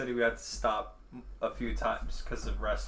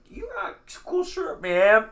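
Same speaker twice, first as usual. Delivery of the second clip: high excited compliment; 8 dB louder than usual. Retold or imitated. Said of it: "and I was like".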